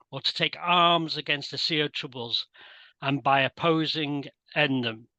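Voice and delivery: lightly posh, theatrical Shakespeare reading. Shown as a demonstration. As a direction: recite it in a plummy posh voice. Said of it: "putting on my posh voice now".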